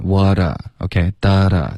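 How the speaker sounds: WHAT A run together as "wah-da" on one airflow; linked pronunciation. Shown as a demonstration. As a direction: link WHAT A smoothly, echoed as "da da". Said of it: "气流要一致，连贯". (示范连读：what a 气流连贯)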